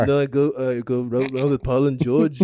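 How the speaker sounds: mock Liverpool accent; Liverpool band-style accent. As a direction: chat like a band member in put-on Scouse. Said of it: "you were one of the band".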